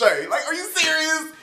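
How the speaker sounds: high, disbelieving question; incredulous. Real, not acted. Reviewer mocking the dad, incredulous question. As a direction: ask it in open disbelief.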